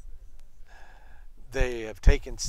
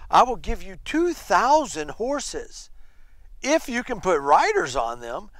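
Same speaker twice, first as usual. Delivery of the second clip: mocking offer; 4 semitones higher, 4 dB louder than usual. Commander bargaining with a weaker army, mocking. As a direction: dangle the offer as a taunt. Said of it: "He is so mocking".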